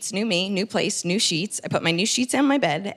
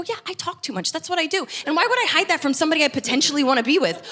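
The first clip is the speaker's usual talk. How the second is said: defiant; 7 semitones higher, faster than usual. Retold or imitated. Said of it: "defiant reply to her friend".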